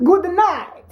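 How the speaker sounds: slow, tipsy-sounding drawl on good night; Saturday night accent. Pretend. Wife signs off in her mock tipsy Saturday night accent. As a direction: stretch out good, good night like after a drink. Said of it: "This is my Saturday night accent".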